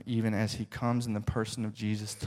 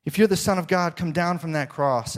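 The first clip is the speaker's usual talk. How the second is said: higher, louder jeer; mocking shout; 5 semitones higher, 3 dB louder than usual. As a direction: dare him to come down. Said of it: "the people shouted".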